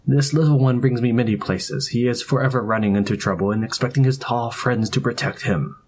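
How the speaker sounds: put-on Indian accent. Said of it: "The familiar cadences of his accent".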